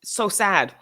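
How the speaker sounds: loud fake laugh then slow mock sadness. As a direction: laugh it up falsely, then drag out so sad. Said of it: "you would be like".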